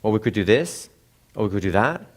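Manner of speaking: THIS and THAT each lifted upward; rising, undecided ends on THIS and THAT; unsure questioning tone. Shown as a demonstration. Teacher showing how upward tone makes you sound unsure, questioning. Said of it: "sound as though you're unsure".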